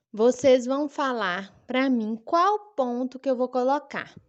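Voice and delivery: usual speaking voice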